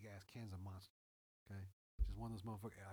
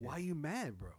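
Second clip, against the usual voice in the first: teasing; 5 semitones higher, 7 dB louder, slower than usual. Retold or imitated. Teasing mad coworker, retold.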